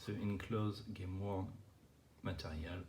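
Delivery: slow, careful English with a French accent. Real, not acted. Collector reading out the back of a card, French-accented English. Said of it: "avec mon accent anglais magnifique".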